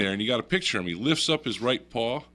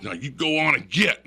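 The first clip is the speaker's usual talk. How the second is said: imitated friend shooing bear; 4 semitones higher, 4 dB louder than usual. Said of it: "And he goes".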